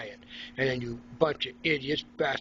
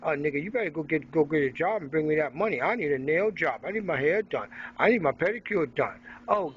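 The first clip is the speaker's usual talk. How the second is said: higher, fast nagging voice; mocking a demanding girlfriend, fast and higher; mock scolding woman; 4 semitones higher than usual. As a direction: rattle off demands like a nagging partner. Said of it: "An African American tell you".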